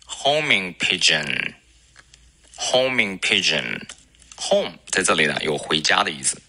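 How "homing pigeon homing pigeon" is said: homing pigeon said slowly; model pronunciation. Shown as a demonstration. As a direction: say homing pigeon clearly for copying. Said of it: "叫做".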